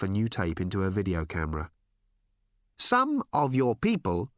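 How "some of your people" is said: hesitant alien. Acted. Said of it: "said one of her visitors hesitantly".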